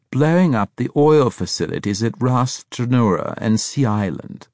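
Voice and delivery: high, loud, emphatic stammering report; excited stuttering schemer. A narrator's reading. Braithwaite announcing the revolt to the Scorpion, excited stutter. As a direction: stammer out the uprisings with mounting relish.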